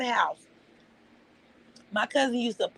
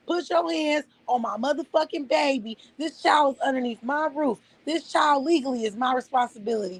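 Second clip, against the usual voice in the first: higher, heated tirade with hard stresses; real furious rant; 4 semitones higher than usual. Real, not acted. Mother threatening whoever hurt her baby, furious. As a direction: lets her fury out in a raised, hammering voice.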